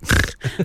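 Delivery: quick put-on snort through the nose; fake snort. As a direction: deliberately snort for a laugh. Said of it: "I'll give you a fake snort for it".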